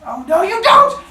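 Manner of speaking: high, loud triumphant yell; villain shout. Acted. Cronus yells as he chases his father, high and loud. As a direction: yell as you take off after him.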